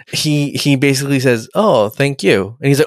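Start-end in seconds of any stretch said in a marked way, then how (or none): 1.5-2.6 a slow, stretched-out oh, thank you; lightly voiced grateful thanks, slow; drawn-out thanks. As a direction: draw out the gratitude lazily. Reva thanks Data, retold.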